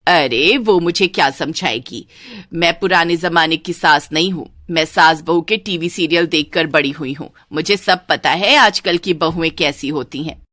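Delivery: know-it-all, slightly low voice; haughty mother-in-law. Acted. Mother-in-law dismissing her daughter's offer to explain, haughty.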